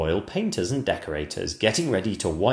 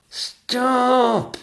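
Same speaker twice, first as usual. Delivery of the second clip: high, strained "stop"; a desperate servant's stifled cry; hoarse whispered plea; 6 dB louder than usual. Acted. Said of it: "whispered the footman hoarsely".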